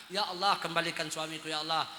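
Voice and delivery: low, soft pleading prayer; wife softly pleading for her husband's return; quiet prayer. Retold or imitated. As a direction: murmur it like a wronged wife praying. Wife prays quietly at prayer mat.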